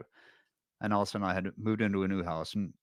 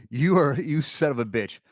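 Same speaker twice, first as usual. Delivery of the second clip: retold exasperated cursing; 5 semitones higher, 4 dB louder, slower than usual. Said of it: "Allison's getting really mad".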